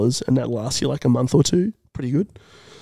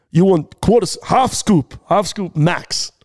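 higher-pitched, urgent dosing advice; skittish clerk; 4 semitones higher, slower than usual. Retold or imitated. Clerk advising a customer on scoop size, skittish excitement. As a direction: warn in excited bursts. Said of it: "Very excited, very skittish man".

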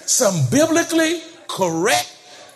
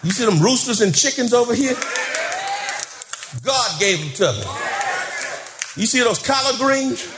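Shouting John building to a shout; 2 semitones higher than usual. Retold or imitated. Old farmer shows his blessings, working himself into a shout. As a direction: let him build from boasting to shouting joy. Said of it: "Shouting John said".

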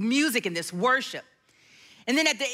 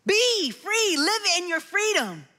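higher, laughing "Be free" said with delight; joyful laugh; 5 semitones higher than usual. Real, not acted.

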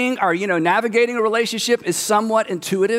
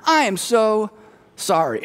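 patronizing apology; 2 semitones higher than usual. Retold or imitated. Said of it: "a little pat on the head".

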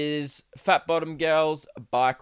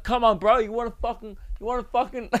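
lightly mocking pick-a-fight voice, pitched up; mock a scrappy guy squaring up, higher than usual; a pop singer; 6 semitones higher, faster than usual. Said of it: "and he's like".

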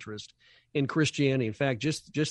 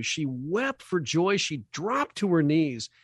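slow and moved; 3 semitones higher, slower than usual. Acted. Moving retold testimony.

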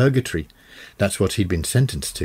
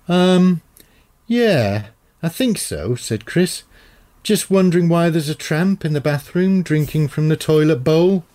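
put-on shaken teenage son; 8 semitones higher, 3 dB louder than usual. Shaken son reports strange tramp.

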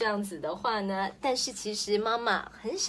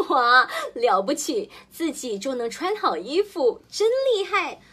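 delighted praise; 4 semitones higher, 4 dB louder than usual. Acted. Mother praising child.

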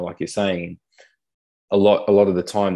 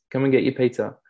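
higher, teasing call with pizza held out; a mild playful shout from the top of the stairs; mock call up the stairs; 6 semitones higher than usual. Mate calls disabled friend up stairs to the pizza, mock call.

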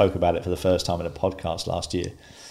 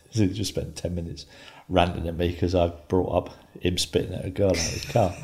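ordinary talk

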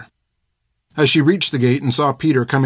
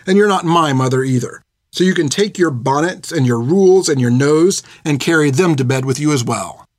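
angry outburst; 2 semitones higher than usual. Acted. Finn yells at the old nun Hilda, furious. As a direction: let the insults pile up, hotter and hotter. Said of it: "as she'd yelled at her".

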